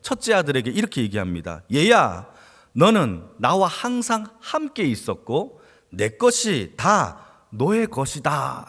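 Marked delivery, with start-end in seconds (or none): 1.7-8.7 slow, tender fatherly words; father gently telling his son all is his; gentle father. Acted.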